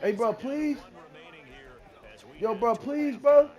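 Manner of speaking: insistent, repeated plea; imploring trash talk; begging. Real, not acted. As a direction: plead with your opponent to give in. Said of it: "Yo, I'm begging this nigga".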